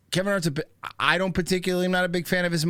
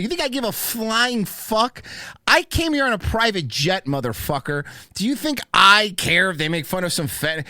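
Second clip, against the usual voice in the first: imitating Kevin Hart; 4 semitones higher, 4 dB louder than usual. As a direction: boast like a rich star who doesn't care. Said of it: "where he's like".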